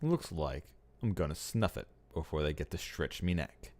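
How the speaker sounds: dying convict voice. Shown as a demonstration.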